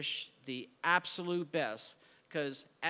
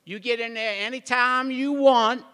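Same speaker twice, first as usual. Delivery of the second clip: generous exclamation; 7 semitones higher, 12 dB louder than usual. Retold or imitated. Retold offering studio key to friend.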